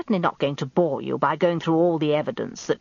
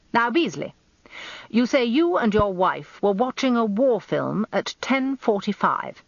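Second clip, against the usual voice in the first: commanding, higher barrister; barrister voice, raised; 6 semitones higher than usual. A narrator's reading. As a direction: press the witness like a sly old barrister. Rumpole resumes questioning.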